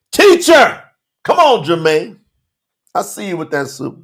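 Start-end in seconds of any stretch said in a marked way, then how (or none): 0.1-0.8 a high cry of Teacher from the crowd; shouted out. A narrator's reading. Man in the crowd calling out to Yahusha, a high shout. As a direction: call out to the teacher over the crowd. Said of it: "someone from the crowd shouted out".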